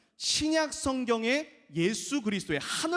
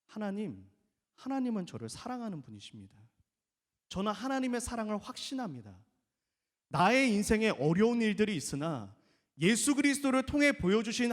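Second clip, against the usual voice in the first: humble trusting prayer. Shown as a demonstration. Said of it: "원망과 불평과 교만의 기도가 아니라".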